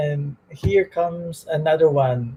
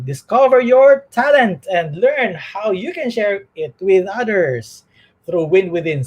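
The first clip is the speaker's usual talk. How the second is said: announcer promo read. Acted. Reads station promo ads.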